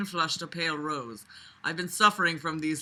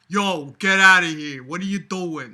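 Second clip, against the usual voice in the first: brushing him off; 6 dB louder than usual. Retold or imitated. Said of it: "That's what I would say".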